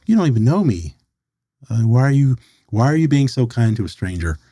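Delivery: mildly defensive protest, pitch lifted at the start; retold defensiveness. Recounting his first reaction to a stranger's offer, mildly defensive. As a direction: push back at unexpected kindness, mildly wary. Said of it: "anger or defensiveness".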